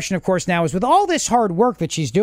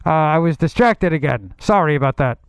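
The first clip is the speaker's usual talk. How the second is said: mock Bernie voice; 2 semitones higher than usual. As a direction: hedge and stumble like Bernie. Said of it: "Whenever he's gotta start with "look".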